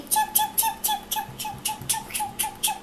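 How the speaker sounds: very high squeaky chirping; imitated chick chirps. Child retelling the story chirping like baby chicks.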